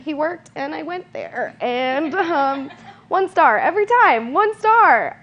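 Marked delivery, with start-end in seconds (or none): 3.1-5.2 mock indignant. Mock rating her ex's workplace.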